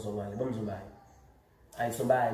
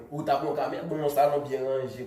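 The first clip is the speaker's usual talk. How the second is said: laughing; 5 dB louder than usual. Real, not acted. Laughing about the camera.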